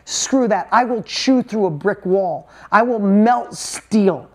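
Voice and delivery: slow, drawn-out vow, every word leaned on; I will melt steel, stretched and forceful; dead-set, dragged-out promise; fierce determination. Real, not acted. Defiant vow about his kids.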